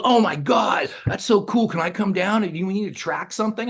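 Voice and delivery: imitating a thrilled friend, loud and high; excited gushing. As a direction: burst out high with instant enthusiasm. Retold friend reacting instantly to song.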